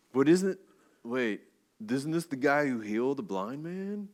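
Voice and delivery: lightly voiced surfer dude asking; a hint of a laid-back surfer wondering aloud. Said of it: "I don't know if they're surfer dudes".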